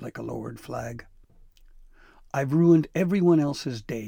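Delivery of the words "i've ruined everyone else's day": louder, higher self-blaming lament; boy laments to his family, loud. Acted. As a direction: wail it out in despair. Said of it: "he lamented".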